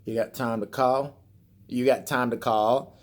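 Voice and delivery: slow, drawn-out hillbilly drawl; mock Southern hillbilly twang; hillbilly accent. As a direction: imitate a hillbilly brother asking. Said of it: "got a hillbilly accent".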